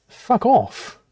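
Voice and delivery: high sharp fuck off; snapped retort. Real, not acted. Snapping back after mock quote.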